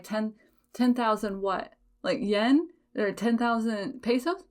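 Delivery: "ten thousand" echoed with a disbelieving rise; mock disbelief at a vendor's price; stunned echo. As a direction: repeat the price as if misheard.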